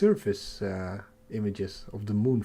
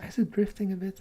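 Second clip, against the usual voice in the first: whispering; 9 semitones higher, faster than usual. Real, not acted. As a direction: whisper the question. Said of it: "sorry for the whispering".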